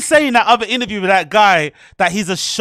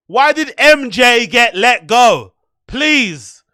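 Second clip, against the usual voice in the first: why did M J get let go, louder and slowed; louder, slower demand; 5 dB louder, much slower than usual. Real, not acted. Streamer demanding an answer from the podcaster, louder and slower. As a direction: press harder the second time.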